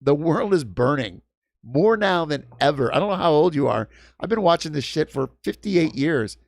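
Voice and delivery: heated, insistent rant; really agitated, driving the point home; worked up. Real, not acted. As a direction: argue with rising exasperation. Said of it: "getting you so worked up".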